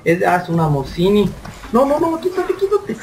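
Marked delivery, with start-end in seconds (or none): 1.7-3.0 high squeaky laughing no, quítate; laughing panic. Real, not acted. Gamer laughing as zombies grab him, high squeal. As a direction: laugh through a panicked get off.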